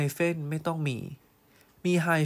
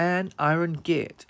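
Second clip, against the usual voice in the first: slow clear model; much slower than usual. Shown as a demonstration. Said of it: "ตอบเป็น an iron gate".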